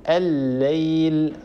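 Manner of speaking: الليل drawn out slowly with one long doubled L; doubled lam. Shown as a demonstration. Tajweed teacher models two lams merged, long doubled L in الليل. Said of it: "أدغمت في اللام الثانية".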